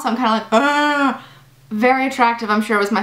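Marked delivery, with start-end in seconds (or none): 0.5-1.2 mock crying "aah", raised in pitch; higher, put-on crying moan; imitated gauze-mouthed wail. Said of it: "laughing, crying with, like, gauze in my mouth".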